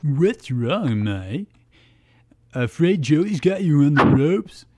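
lightly acted teasing; teasing quip. A narrator's reading. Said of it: "quipped Tristan".

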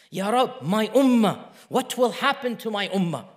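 fuller-voiced, insistent retold supplication; urgent repeat of a prayer; begging plea. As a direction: plead it out firmly, without tears. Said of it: "kept on repeating and crying and begging".

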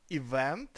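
event with a rising, stressed VENT; stress on second syllable. Shown as a demonstration. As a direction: say event leaning on the last syllable. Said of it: "насправді на другий".

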